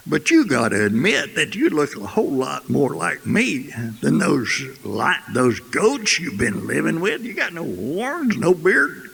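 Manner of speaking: animated, mildly exasperated coaxing; lightly voiced lion. Lion points at reflections for the cub, lightly exasperated. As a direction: talk him round, pitch climbing toward the end.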